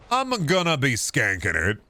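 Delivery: a light hint of an Italian pizza shop owner's accent; faint mock Italian accent on a throwaway game line. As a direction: barely slip into a stereotypical Italian accent, not quite meaning to. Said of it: "I said that like a, like a stereotypical Italian pizza shop owner".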